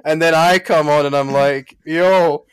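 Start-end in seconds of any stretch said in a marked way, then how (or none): 1.8-2.5 loud, raised, drawn-out announcement; hammed-up excited entrance; mock hype. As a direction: burst in with a big slow holler. Mimics own unprofessional podcast entrance.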